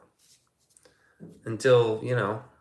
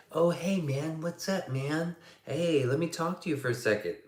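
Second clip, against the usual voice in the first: chatty acquaintance; 5 semitones higher than usual. Retold or imitated. Imitates people approaching to chat.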